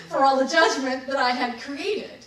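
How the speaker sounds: laughing out loud through the words; bursting into loud, high laughter at the joke on herself. Real, not acted. Telling listeners about her karma payback, laughing out loud.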